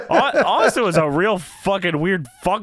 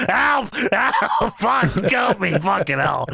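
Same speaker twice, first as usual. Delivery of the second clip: mock cries for help; 2 semitones higher, slower than usual. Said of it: "Vince says".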